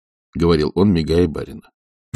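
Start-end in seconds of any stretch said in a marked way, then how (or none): none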